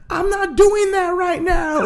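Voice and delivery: high, slow reply broken by laughter; laughing mock reply. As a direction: play her brush-off while cracking up. Voicing the woman's reply.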